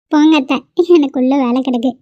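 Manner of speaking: shy, playful brush-off; bashful. Acted. Daughter-in-law escaping mother-in-law's teasing questions, bashful. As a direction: wave the question away bashfully. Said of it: "புள்ள வெக்கப்பட்டு ஓடும்போதே தெரியுது".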